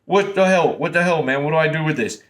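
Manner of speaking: mock a nervous guy who checks every move with his coach; panicky self-questioning. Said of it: "you're gonna be questioning yourself".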